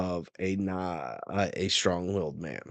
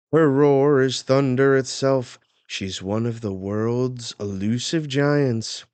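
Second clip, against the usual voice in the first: loud, higher announcer's pitch; carnival barker; 6 semitones higher, 7 dB louder than usual. Acted. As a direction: hype up the sideshow giant for the crowd. Reads fairground show announcement aloud.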